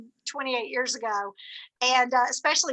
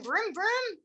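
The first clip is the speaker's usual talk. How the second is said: mock car vroom; 7 semitones higher, 5 dB quieter than usual. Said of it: "There's Zulema in the car, going".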